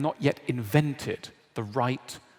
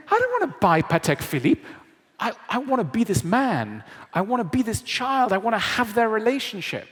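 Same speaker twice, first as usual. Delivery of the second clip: longing viewer; 8 semitones higher, 5 dB louder than usual. Retold or imitated. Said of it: "He said".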